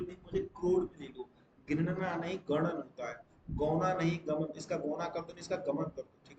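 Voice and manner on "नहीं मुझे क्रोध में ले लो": pitched way up, joking; high joking correction. Shown as a demonstration. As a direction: jump high for the corrected line. (ऊँची आवाज़ में मज़ाकिया सुधार)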